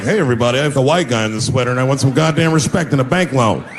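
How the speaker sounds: lightly voiced preppy white guy asking for respect; a hint of a stiff white guy in an Argyle sweater. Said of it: "If I put on an Argyle sweater and I'm like".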